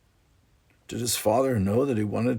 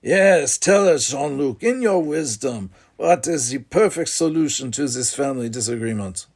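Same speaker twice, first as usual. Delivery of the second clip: sarcastic; 4 semitones higher, 4 dB louder than usual. Acted. Brother mocks Jean-Luc.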